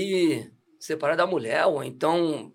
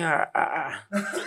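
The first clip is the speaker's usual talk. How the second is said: imitated relief; much slower than usual. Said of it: "o pezinho dele fez assim".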